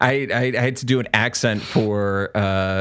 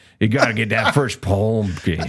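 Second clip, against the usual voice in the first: put-on Southern gentleman accent. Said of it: "default Southern gentleman, like, accent".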